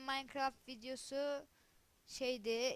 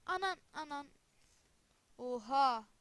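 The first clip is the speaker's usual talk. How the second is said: shocked outburst; 4 semitones higher, 8 dB louder than usual. Real, not acted. Reacting to game crash.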